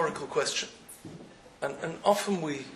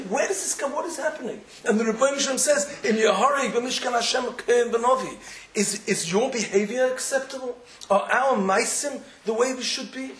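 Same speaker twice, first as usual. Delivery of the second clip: higher, louder anguished pleading; pleading cry; 6 semitones higher, 5 dB louder than usual. Acted. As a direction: cry out to God in protest. Preaching climax, crying out.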